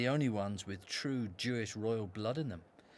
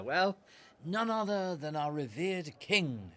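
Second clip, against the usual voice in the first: a bit too loud; 3 semitones higher, 3 dB louder than usual. Acted. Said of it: "Not so loud".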